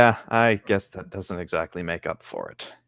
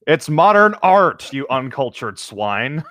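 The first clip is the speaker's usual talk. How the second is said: snobby art critic; 3 semitones higher, slower than usual. Pretend. Mock snobby retort.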